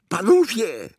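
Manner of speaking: put-on loud, high boyish shout; excited cry. A narrator's reading. Boy calls out to his companions, crying out. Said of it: "krzyknął Konrad".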